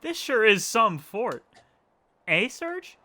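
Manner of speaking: high, slow mock Cockney; playful fake Cockney. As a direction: drawl the line like a cheeky Cockney kid. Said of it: "Cockney accent".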